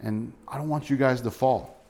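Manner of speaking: mildly pleading, caring appeal; gentle concern. Acted. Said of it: "I think he's concerned for them".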